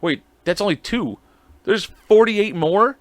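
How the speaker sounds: mock disbelief. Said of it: "And I'm like".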